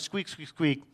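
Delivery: playful toy squeaks; squeaky toy noise. Retold or imitated. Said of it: "You show her squeaky octopus".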